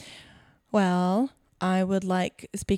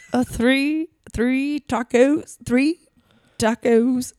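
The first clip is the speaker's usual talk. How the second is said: attempted Russian accent; 4 semitones higher, 3 dB louder, much slower than usual. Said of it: "Uh, Russian".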